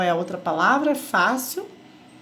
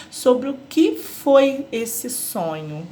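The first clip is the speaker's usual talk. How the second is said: "que" lifted, whole question read slowly; question intonation; much slower than usual. Shown as a demonstration. Teacher showing pupils how a question is read, question intonation. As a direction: stretch out the question, leaning on "que". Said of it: "a pergunta tem uma entonação diferente".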